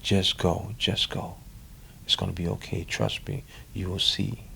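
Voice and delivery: soft, half-whispered inner voice urging him on. Retold or imitated. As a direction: whisper it like a voice inside your head. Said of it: "little voice in me kept telling me".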